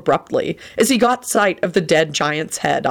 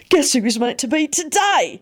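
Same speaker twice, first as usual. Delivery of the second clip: exultant; 9 semitones higher than usual. Acted. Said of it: "he told Arthur exultantly".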